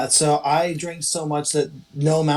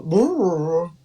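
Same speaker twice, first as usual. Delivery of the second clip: sleepy grumble; 2 semitones higher than usual. Acted. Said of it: "I go".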